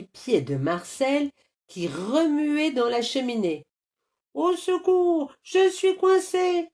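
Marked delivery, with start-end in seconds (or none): 4.3-6.7 put-on very high-pitched child's distress call; squealed plea from a stuck kid; cry for help. A narrator's reading. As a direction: call out like a trapped little boy. Boy stuck in chimney calls for help.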